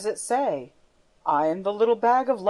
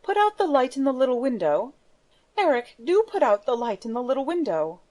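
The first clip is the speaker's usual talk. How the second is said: higher, gentle plea from Christine; young woman's earnest, pleading request; 4 semitones higher, faster than usual. Acted. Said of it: "besought him in the gentlest tones".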